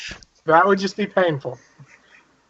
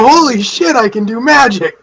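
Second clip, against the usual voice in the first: excited shout; 2 semitones higher, 4 dB louder than usual. Acted. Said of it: "I go".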